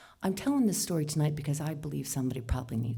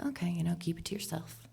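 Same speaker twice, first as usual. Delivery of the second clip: inner whisper; 6 dB quieter, faster than usual. Retold or imitated. Silent thought to herself in gym.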